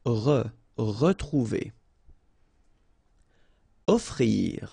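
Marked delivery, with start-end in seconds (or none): 0.1-1.7 Re, retrouver with a light uh on re; slow model word. Shown as a demonstration. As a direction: break off re, then retrouver. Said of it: "it's really pronounced like E".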